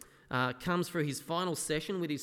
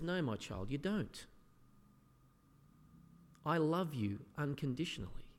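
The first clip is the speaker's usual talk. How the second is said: softer, gentle voice of a loving Jesus; tender reassurance; 4 dB quieter than usual. Retold or imitated. Jesus gently assuring believers of his love, softly tender. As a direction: soothe a doubting child.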